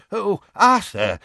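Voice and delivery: put-on a timid old wizard pleading in a panic; desperate old wizard. A narrator's reading. Perkins bursting in on Arthur, high and desperate. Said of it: "he said desperately".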